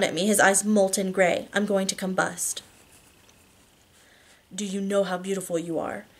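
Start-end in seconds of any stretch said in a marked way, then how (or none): 4.5-6.1 quiet, tender male voice. Acted. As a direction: murmur it tenderly. Narrator voices Christian.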